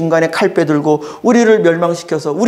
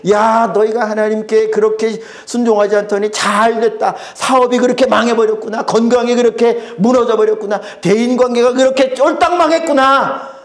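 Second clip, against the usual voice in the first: higher, gloating taunt; mocking jeer; 5 semitones higher than usual. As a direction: sneer at the fallen neighbour. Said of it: "막 손가락질하고 비웃습니다". (비웃는 조롱조)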